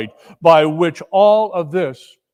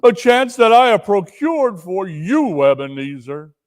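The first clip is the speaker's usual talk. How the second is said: warning ghost; 3 semitones higher than usual. Acted. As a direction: warn him gravely. Marley warns Scrooge.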